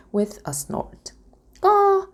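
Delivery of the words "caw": high, hushed crow call. A narrator's reading. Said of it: "the crow said".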